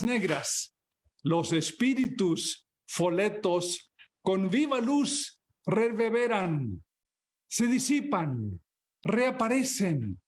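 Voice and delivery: measured, solemn poetry reading; poem recital. Acted. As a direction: recite it like an epic gaucho poem under the night sky. Reads a Spanish poem aloud.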